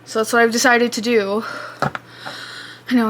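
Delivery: panting after chasing the cat; breathless, gasping between words; out of breath. Real, not acted. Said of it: "I'm panting".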